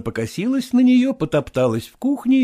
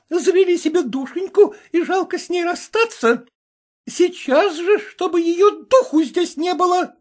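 angry mistress. Acted. Jealous Vasilisa scolding the cook, high and angry.

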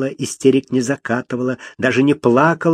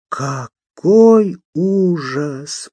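horrified; 5 semitones higher, much slower than usual. Acted. Lady horrified at the news.

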